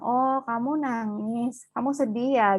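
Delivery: put-on calmly mirror the child's sadness; gentle reflecting. Shown as a demonstration. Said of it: "Kita kan bilang". (ibu menenangkan anak, pelan dan lembut)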